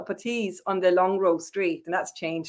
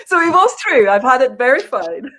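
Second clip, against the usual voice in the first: triumphant; 5 semitones higher, 8 dB louder than usual. Real, not acted. Triumphant after the story.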